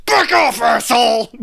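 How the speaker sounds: high, pissed-off yell in imitation; mock-furious high-pitched outburst; Robin Williams as Missus Doubtfire. Imitating the film character fending off a bag snatcher, pissed off. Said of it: "Robin Williams really pissed off".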